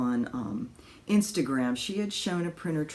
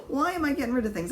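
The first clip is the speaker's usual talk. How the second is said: laughing through the question, higher; 12 semitones higher, 3 dB louder, faster than usual. Real, not acted. Vlogger laughing at herself for getting rid of things. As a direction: giggle at yourself as you ask. Laughing at her own decluttering.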